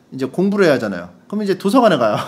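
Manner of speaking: usual speaking voice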